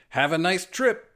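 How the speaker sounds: drawn-out teasing quip; smug wisecrack. Acted. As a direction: savor the pun. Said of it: "Peter said".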